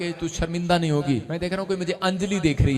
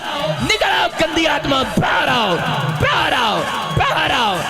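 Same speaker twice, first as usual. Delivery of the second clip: high, relentless deliverance shouting; exorcist's shouted command; 10 semitones higher, 7 dB louder, slower than usual. Real, not acted. Preacher ordering foul spirits to leave the womb, shouted commands. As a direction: drive the spirit out, punching each short phrase.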